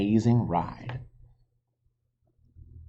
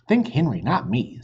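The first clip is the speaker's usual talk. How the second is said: put-on cheerful girl; 3 semitones higher, 4 dB louder than usual. Annie's voice.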